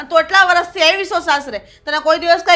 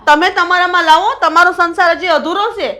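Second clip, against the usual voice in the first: angry outburst; 4 dB louder than usual. Acted. Mother-in-law lashes back at daughter-in-law.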